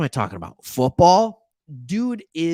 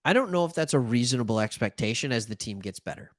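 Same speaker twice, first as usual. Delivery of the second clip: ordinary talk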